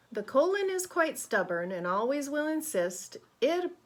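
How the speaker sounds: put-on lively, expressive reading to children; rhythmic, emphatic storybook voice; picture-book read-aloud. A narrator's reading. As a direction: read it brightly to a class of kids.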